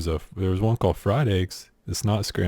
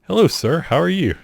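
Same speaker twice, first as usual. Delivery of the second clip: polite greeting; 7 semitones higher than usual. Acted. Acting out how to greet an elderly man, sweetly polite.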